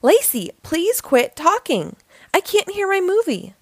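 a brother's restrained, read-aloud yell; mild storybook shout. A narrator's reading. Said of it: "shouted her brother".

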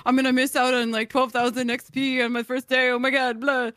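anxious inner thoughts voice. Retold or imitated. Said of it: "Why do you sound like my inner thoughts?".

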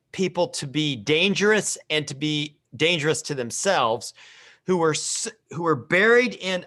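muffled behind hands; talking into covered face. Real, not acted. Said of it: "I've got my hands over my face right now".

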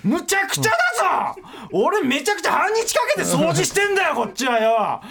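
high, shouted complaint; furious comic shouting, slowing at the end; comic rant. Real, not acted. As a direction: rant at them in outrage. Ranting about ungrateful guests.

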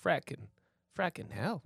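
tentative, quiet stab at an Irish accent; attempted Irish accent. Shown as a demonstration. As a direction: try a half-hearted Irish accent, under your voice. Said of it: "there's Irish as hell".

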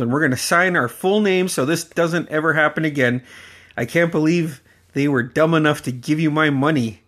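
a hint of a strict uncle; stern uncle. Uncle telling his nephew how to sign, stern.

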